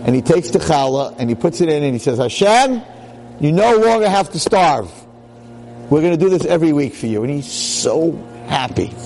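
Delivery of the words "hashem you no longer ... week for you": joyful prayer. Acted. Husband's joyful prayer to God.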